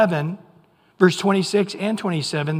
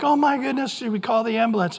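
higher, fast alarmed; alarmed grandparents; 6 semitones higher, faster than usual. Retold or imitated. Grandparents hearing a grandkid scream, fast alarm. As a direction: rush it, worried. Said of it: "look at each other like".

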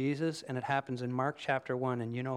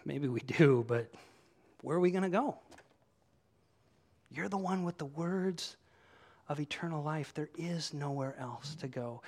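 reluctant admission, trailing off softer; unenthusiastic; 3 dB quieter than usual. Acted. Peter answers Jesus with no alternative, unenthusiastic. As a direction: answer without much excitement, as if out of options. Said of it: "Peter doesn't even sound super excited".

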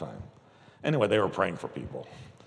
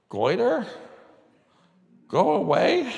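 higher, louder command to the goiter; commanding shout; 11 semitones higher, 6 dB louder, slower than usual. Retold or imitated. Bill finally ordering the goiter away, loud command. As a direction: bark it away with full authority.

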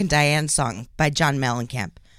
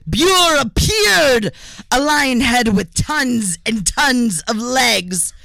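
excited; 5 semitones higher than usual. Acted. Narrator dramatic reveal.

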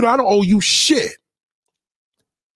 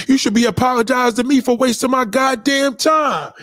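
heated rant; 6 semitones higher than usual. Real, not acted. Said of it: "ranting at a former friend".

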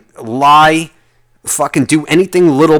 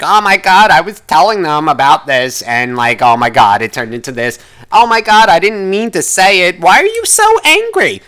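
mock gossipy partner; 4 semitones higher than usual.

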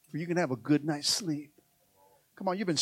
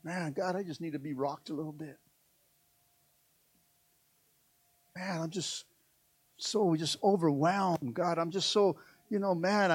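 much softer, intimate plea to God; soft confiding prayer; 5 dB quieter than usual. Acted. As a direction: hush down into a tired confession.

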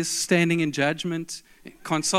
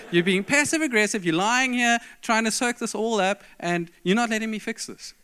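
exasperated scolding; 6 semitones higher than usual. Retold or imitated. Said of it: "now I'm mad".

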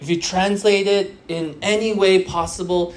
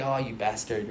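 teasing friend; 10 semitones lower, 10 dB quieter than usual. Retold or imitated. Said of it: "when you speak to your friend".

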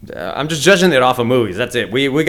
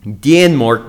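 lightly put-on Danish accent; attempted Danish accent; 4 dB louder than usual. Host shows his only Danish word, in a mock Danish accent. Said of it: "That's all I know how to say".

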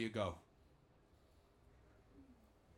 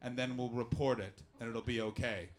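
mock news editor; 5 semitones lower than usual. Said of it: "news people ... were like".

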